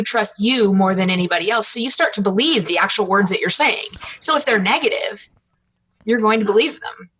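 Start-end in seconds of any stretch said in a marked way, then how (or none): none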